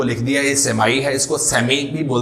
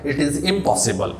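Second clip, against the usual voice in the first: slow emphasis; 3 dB quieter, much slower than usual. Shown as a demonstration. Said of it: "teacher driving the point home".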